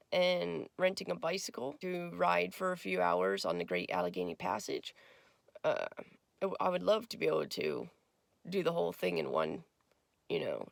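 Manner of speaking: raspy just-woke-up voice; hoarse morning voice, raspy. Real, not acted. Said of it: "Sorry about the raspy voice".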